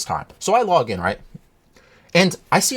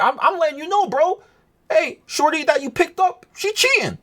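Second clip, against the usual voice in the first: higher, pushy "letting you know" voice; lightly hammed-up bro warning; a hint of a smug tip-off; mock earnest bro; 10 semitones higher than usual. Retelling his message to the guy.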